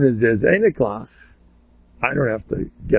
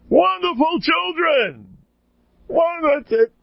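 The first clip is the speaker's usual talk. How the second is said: much higher, slow, drawn-out delight; delighted old rabbi; slower than usual. Retold or imitated. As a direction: gush over the children in the rabbi's voice. Rabbi Miller praises wild kids.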